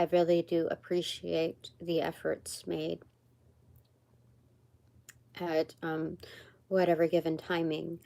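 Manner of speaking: spiritual thanks. Real, not acted. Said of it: "it's kind of like a spiritual ad".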